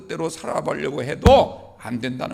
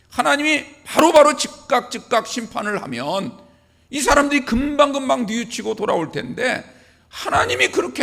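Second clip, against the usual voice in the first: raised-voice protest to God, acted by a preacher; Habakkuk crying out; 2 semitones higher, 4 dB louder than usual. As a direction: act out a prophet's loud, urgent plea. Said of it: "목소리를 크게 부르짖었습니다". (하박국의 부르짖음을 흉내 낸 목소리)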